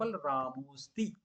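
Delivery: रामोस्ति said slowly with the a swallowed; silent a elided. Shown as a demonstration. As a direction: say रामोस्ति as ra-mos-ti, no a before -sti. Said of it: "इसको रामोस्ति ऐसा करके बोलेंगे".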